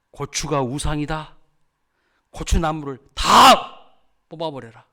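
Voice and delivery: slow proclamation, exploding loud and high. Retold or imitated. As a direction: deliver God's command, booming the key word. Acted reply quoting God's command. (느리고 단호하게 호령하듯)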